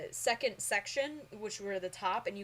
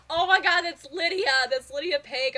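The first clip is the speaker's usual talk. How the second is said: much louder, higher excited recognition; starstruck shout; 6 semitones higher, 10 dB louder than usual. Retold or imitated. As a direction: yell her name like you can't believe it. Retold spotting a star.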